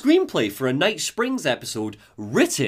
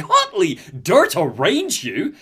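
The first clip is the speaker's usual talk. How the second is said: alien prisoner voice; 3 semitones higher, 3 dB louder, slower than usual. Retold or imitated. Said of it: "And the prisoner's like".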